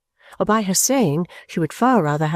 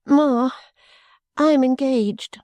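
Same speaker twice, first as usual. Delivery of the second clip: higher, slow tearful plea; crying heartily; 6 semitones higher, slower than usual. A narrator's reading. Caddy confesses her engagement to her mother, tearful. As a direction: blurt it out through tears. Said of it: "crying heartily".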